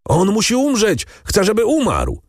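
very high screamed demand; struggling convict screaming for the other's death; frantic screaming. A narrator's reading. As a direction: scream without stopping. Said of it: "Skazany wrzeszczał bez przerwy".

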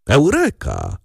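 triumphant shout from the top of the fence; bold triumphant shout. A narrator's reading. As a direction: crow over the win with bravado. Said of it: "krzyknął z niesłychaną brawurą".

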